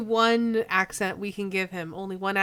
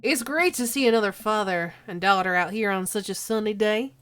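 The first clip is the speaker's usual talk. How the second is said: genial dad character. Acted. Brian chatting to another dad in the park, genial. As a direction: stretch the words like an easygoing dad.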